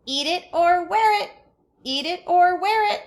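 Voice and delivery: put-on high, loud toddler shriek; toddler screaming. A narrator's reading. Toddler Fudge screaming at his father at the table. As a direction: scream it like a furious little kid. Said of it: "Fudge screamed".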